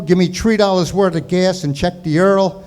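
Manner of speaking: put-on old-time Brooklynese, TH as T; Brooklyn accent. Uncle at the gas station, Brooklyn accent. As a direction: swap the vowels like a Brooklyn native. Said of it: "He spoke like that".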